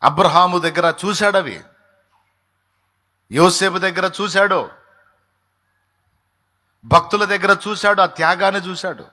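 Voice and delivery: loud fervent proclamation; preaching at full force. Acted. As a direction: hammer it home to the congregation.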